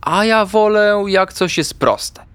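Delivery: high, slow, drawn-out small voice; stressed little grumbler. A narrator's reading. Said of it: "mruknął Artek i aż podwinął ogonek".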